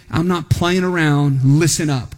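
low, stern dad warning; authoritative dad voice. Shown as a demonstration. Dad to his kids, stern and authoritative. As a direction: lay down the law like a dad. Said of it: "It's that authoritative".

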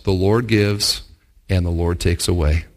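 low, quiet, steady acceptance; quiet faith. Retold or imitated. Church member receiving terrible news, lightly voiced calm acceptance. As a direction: say it with calm surrender. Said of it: "his response was".

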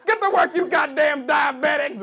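hammed-up slave driver yell; mock overseer shout. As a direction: yell orders at the workers.

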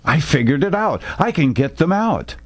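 put-on young private bursting with his idea; excited blurt. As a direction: blurt it out before you lose your nerve. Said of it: "An excited Haynes blurted out".

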